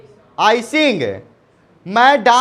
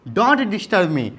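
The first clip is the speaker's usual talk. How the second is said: very slow, word by word; slow teaching model; much slower than usual. Shown as a demonstration. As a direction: drill it slowly for the class. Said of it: "teacher models phrase slowly". (धीरे-धीरे बोलकर सिखाना)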